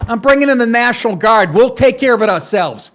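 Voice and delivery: decisive governor. Pretend. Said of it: "he should be out there going".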